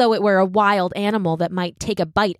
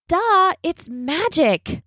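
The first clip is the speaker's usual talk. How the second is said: smug; 9 semitones higher, much slower than usual. A narrator's reading. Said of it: "feeling very smug about it".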